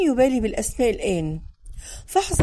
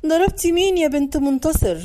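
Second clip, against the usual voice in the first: scolding yell; 5 semitones higher than usual. Acted. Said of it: "لطمت وجنتي وصرخت فيها".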